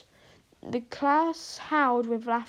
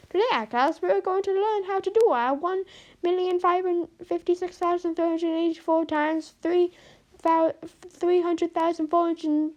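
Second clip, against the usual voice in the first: higher, louder hammed-up Italian teacher accent; quick Italian accent; 6 semitones higher, 5 dB louder than usual. Maths teacher Missus Golson announcing the sum, in an Italian accent. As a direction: rattle it off in a mock Italian accent. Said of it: "in a very quick Italian accent".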